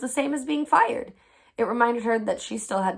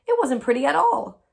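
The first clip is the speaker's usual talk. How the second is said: higher and louder, pushing back hard; insistent, raised voice denying it; emphatic correction; 6 semitones higher, 6 dB louder than usual. Acted. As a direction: set her straight with force. Woman correcting Amelia emphatically.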